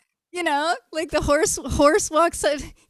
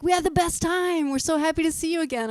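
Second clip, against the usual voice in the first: gushing excitedly; 4 semitones higher than usual. Retold or imitated. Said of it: "they're like".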